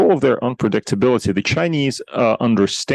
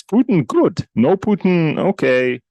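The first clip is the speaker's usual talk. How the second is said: shrugging mock Chinese view; 7 semitones higher, slower than usual. Voicing China's pragmatic view.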